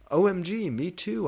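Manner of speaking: high, loud delighted squeal; happy squeal. A narrator's reading. Heroine thrilled to share a band, high loud squeal. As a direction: squeal with joy. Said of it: "I replied happily".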